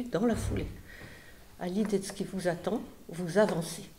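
lightly dramatized reading of a travel account; story reading. Acted. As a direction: read the passage like a vivid tale. Reads Szymanowski quote aloud.

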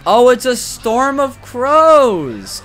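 loud, high, long-drawn exclamation; delighted realization. Real, not acted. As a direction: stretch it out as the joke dawns. Suddenly gets the joke, finds it funny.

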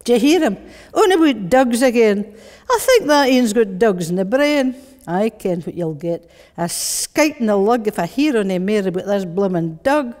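exasperated Glasgow dad; strong Glasgow accent. Acted. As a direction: grumble in broad Glaswegian at a nagging child. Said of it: "that strong Glasgow voice".

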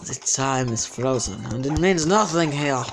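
drawn-out mock-godlike pronouncement; hammed-up deity voice; all-powerful god. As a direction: intone it like an all-powerful being. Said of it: "It's like an all-powerful god".

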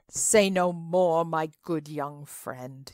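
host gently pressing his guest's hand; kindly. Acted. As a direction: soothe the ashamed young guest. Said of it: "he said kindly".

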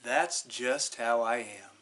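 a hint of the sloth, calm. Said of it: "and said".

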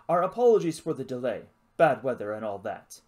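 breezy upper-class English apology; posh accent. Acted. Lizard apologises for the delay, posh English accent. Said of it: "It spoke with a posh accent".

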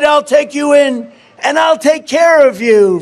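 lightly voiced tender woman; caring woman. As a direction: promise shelter to the frozen snake. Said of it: "she cried".

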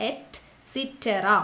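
Et cetera stretched very slowly, syllable by syllable; each syllable of Et cetera drawn out; slow spelling-out. Shown as a demonstration. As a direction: dictate Et cetera slowly for students to copy. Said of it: "അപ്പൊ et cetera എന്ന് തന്നെ പഠിക്കുക".

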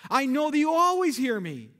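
Jesus praying. Retold or imitated. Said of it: "raised his eyes and said".

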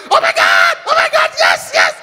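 very high, loud squeal of put-on delight; fake surprise. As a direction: overact the shocked girlfriend. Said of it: "you see the act".

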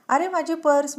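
sudden high, loud cry of alarm. Acted. Woman crying out after thieves who took her purse, high and loud. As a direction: shout after the thieves, startled. Purse snatched, she cries out.

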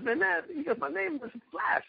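a rival correcting his nickname, mock indignant; irritated protest. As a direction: insist on "Flash" with mock annoyance. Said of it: "he gets so mad".

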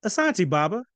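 bright, eager thank-you to his father; a son thrilled by praise; excited thanks. Acted. Son thanking his father, eager and excited. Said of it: "he grew visibly excited".

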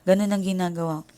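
normal talking voice

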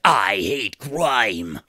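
slow, booming movie trailer voice. Shown as a demonstration. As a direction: drag it out like a trailer announcer. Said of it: "do it in my trailer voice".

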